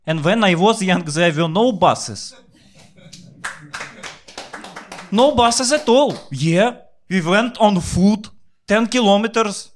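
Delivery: put-on high, indignant old-lady voice; grandma's lecture. Grandma scolding the grandson about walking to school, high indignant voice. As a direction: squeak out a proud old granny's boast.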